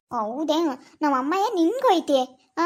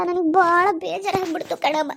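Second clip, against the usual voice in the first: sobbing; 3 semitones higher than usual. Acted. Girl breaks into crying.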